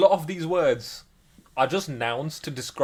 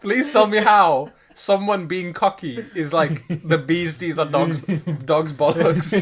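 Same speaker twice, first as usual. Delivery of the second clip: incredulous; 2 semitones higher, 6 dB louder, slower than usual. Real, not acted. Incredulous protest.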